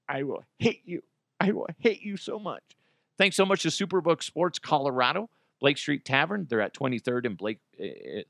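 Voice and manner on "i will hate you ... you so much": mock threat.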